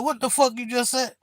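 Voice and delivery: high, baffled retold question; incredulous question. Streamer asks the troll to repeat himself, incredulous.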